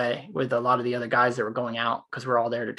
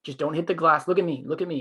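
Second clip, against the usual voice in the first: higher, soothing retold reassurance; calming him down; 3 semitones higher than usual. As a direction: talk an angry man down gently. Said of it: "I was just talking him down and keeping him calmer".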